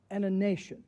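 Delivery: nation given weight at the end; stress on nation. Shown as a demonstration. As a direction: lean on the word nation. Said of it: "I'm emphasizing the word nation".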